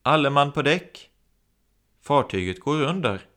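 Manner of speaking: loud, high alarm call; alarmed shout. Acted. Steward warning everyone the ship sinks, alarmed shout. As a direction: raise the alarm down the corridor. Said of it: "rusar längs korridoren och skriker".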